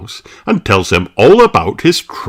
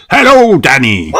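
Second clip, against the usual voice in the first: a hint of a hearty sea captain, louder; Captain Dog; 5 semitones higher, 8 dB louder than usual. A narrator's reading. Captain Dog arriving home to Danny, lightly voiced captain. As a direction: greet your son warmly. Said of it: "says Captain Dog".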